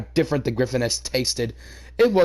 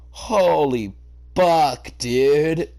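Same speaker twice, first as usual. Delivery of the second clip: breathless exclaim; 4 semitones higher, 4 dB louder, much slower than usual. A narrator's reading. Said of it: "Dash sighed as she recovered".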